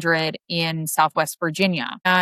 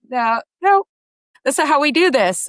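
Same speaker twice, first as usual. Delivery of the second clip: higher-pitched imitation of an insistent coach; retold firm refusal; 8 semitones higher than usual. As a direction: overrule the runner as the coach would. Retold coach rejecting her plan.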